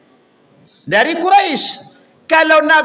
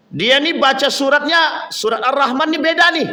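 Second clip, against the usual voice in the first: mild acted complaint; 3 semitones higher than usual. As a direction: lightly act out reporting someone's mistake. Acted complaint of Umar to Prophet. (mengadu, sedikit meninggi)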